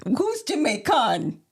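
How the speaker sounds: slow, drawn-out imitation of Jamaican; mock Jamaican accent. Co-host quoting the rapper back, mock Jamaican accent. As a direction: mimic a Jamaican accent, stretching the last syllable. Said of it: "And then you said".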